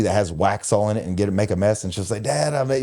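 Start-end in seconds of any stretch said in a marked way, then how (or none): 2.2-2.8 retold daughter's voice. Retold child casually confessing a mess.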